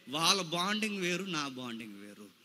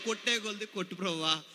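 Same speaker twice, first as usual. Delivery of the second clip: softer, humble plea to the Lord; soft pleading prayer; 6 dB quieter than usual. Retold or imitated. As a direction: beg gently, almost under the breath. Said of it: "అన్నాడు". (మెల్లగా వేడుకుంటూ ప్రార్థన)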